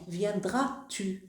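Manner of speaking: "Viendras-tu" drawn out slowly, each syllable clear; slow demo of inversion. Shown as a demonstration. Teacher slowly showing the class the inverted subject in "Viendras-tu". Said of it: "il y a l'inversion de sujet".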